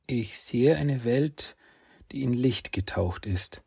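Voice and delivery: put-on high, slow, hushed boy's voice; a small boy confessing his strange dreams; young boy voice. Saki describes fire dreams.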